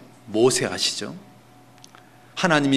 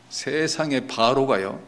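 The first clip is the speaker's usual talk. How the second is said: ordinary talk, nothing marked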